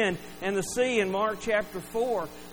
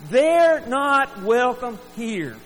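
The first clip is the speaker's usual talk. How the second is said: higher-pitched, exasperated scolding, building to a loud finish; scolding disciples; 5 semitones higher, 4 dB louder than usual. Acted. Disciples to parents about their noisy kids, exasperated scolding. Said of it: "That's the message that the disciples were giving".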